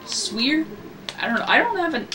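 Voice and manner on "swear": put-on questioning echo of an accented SWEAR, as "sweer"; accented SWEAR said as a puzzled question; mimicking own accent. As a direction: repeat SWEAR as "sweer", rising, to check the accent. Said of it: "I don't know why I have an ac".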